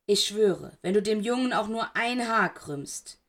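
angry. Acted. Black threatens Snape.

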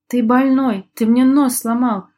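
high, loud horrified wail; horrified yelling. Acted. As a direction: howl in shock and disbelief. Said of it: "в ужасе и неверии вопил". (вопить в ужасе)

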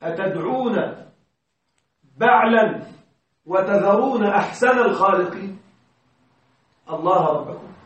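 lightly intoned Quran verse, measured and reverent; Quran recitation. Acted. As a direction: recite the verse gently as scripture. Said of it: "قال الله تعالى".

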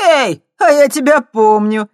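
light up as you recall her; perking up. A narrator's reading. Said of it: "оживился другой молодчик". (оживлённо, громче и выше)

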